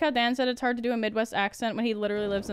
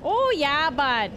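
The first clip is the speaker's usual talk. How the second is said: mock North Dakota accent; 2 semitones higher, 4 dB louder, much slower than usual. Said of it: "It's just North Dakota".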